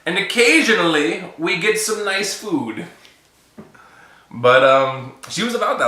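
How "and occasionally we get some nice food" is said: laughing insistence. Retold or imitated.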